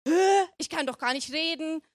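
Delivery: mildly protesting grumble; meckernd. Acted. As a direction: object with a touch of indignation. (leicht meckernd, abwehrend)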